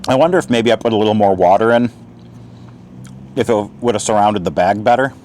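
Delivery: talking with mouth full; words around a mouthful of food. Real, not acted. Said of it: "Yes, I'm talking with my mouth full".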